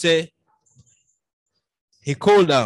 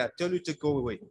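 quiet menace; 3 semitones lower, 12 dB quieter, faster than usual. Retold or imitated. Ordering the gang away.

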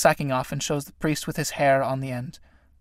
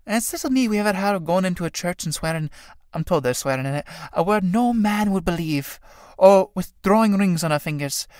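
soothing. Acted. Mary keeps soothing the priest.

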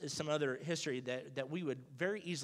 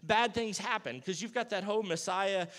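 alarmed disciples; 3 semitones higher, 4 dB louder than usual. Retold or imitated. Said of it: "the disciples are like".

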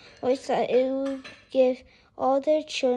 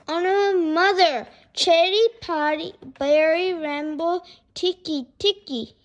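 put-on higher, louder winded boy; gasping plea; 5 semitones higher, 7 dB louder than usual. A narrator's reading. Boy tries the long name for his mother, gasping. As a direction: struggle through the name in short bursts. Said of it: "he gasped".

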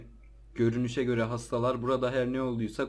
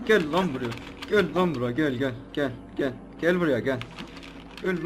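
loud challenging call; taunting shout; 4 dB louder than usual. Real, not acted. Gamer shouting at zombie to come at him.

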